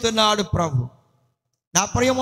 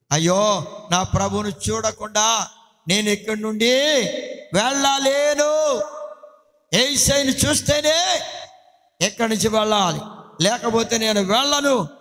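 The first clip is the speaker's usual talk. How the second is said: tearful plea; 2 semitones higher than usual. Retold or imitated. Mary at the empty tomb refusing to leave, tearful. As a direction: plead through mock tears. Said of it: "అని ఆమె అక్కడే ఉండి ఏడుస్తుందండి".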